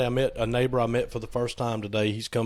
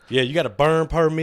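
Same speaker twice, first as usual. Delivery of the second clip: calling out; 5 semitones higher, 6 dB louder than usual. Real, not acted. Calling out to neighbor.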